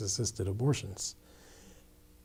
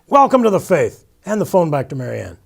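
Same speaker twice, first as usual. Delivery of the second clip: much higher and much louder, booming down the phone; loud deaf priest; 6 semitones higher, 13 dB louder than usual. Retold or imitated. Father Joe welcoming the new convert by phone, shouting. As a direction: shout it like he can't hear himself. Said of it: "he talked like everybody was going deaf".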